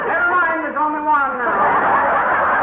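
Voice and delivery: slow, sheepish chuckle through the words; laughing sheepishly. Acted. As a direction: laugh it off after breaking the bowl. McGee broke the other bowl.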